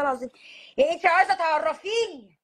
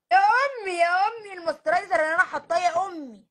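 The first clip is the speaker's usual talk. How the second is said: exasperated; 3 semitones higher than usual. Acted. Daughter doing mom's makeup begs her not to cry. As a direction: beg mom to stop crying over the makeup.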